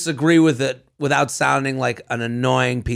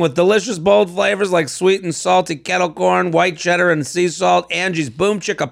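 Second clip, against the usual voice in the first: ad read; 3 semitones higher than usual. Acted.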